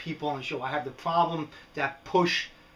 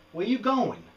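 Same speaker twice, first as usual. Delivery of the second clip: higher, coaxing question to a wandering pet; calling after lizard; 6 semitones higher than usual. Real, not acted. Talking to his lizard, higher coaxing call. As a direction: sing it up to the runaway lizard.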